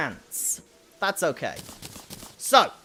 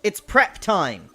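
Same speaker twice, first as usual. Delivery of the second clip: Batman voice; 3 dB louder, slower than usual. Pretend. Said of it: "do a Batman voice".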